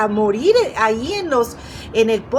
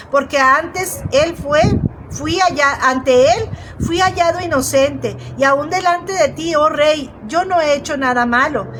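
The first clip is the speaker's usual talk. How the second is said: Daniel replying; 2 semitones higher than usual. Acted. Daniel calls up from the pit to the king, solemn and raised. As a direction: proclaim your innocence up to the king.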